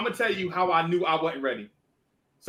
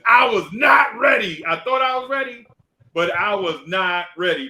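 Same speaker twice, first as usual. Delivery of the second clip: emphatic shout; 3 semitones higher, 5 dB louder than usual. Real, not acted. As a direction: pound the punchline. Emphatic punchline.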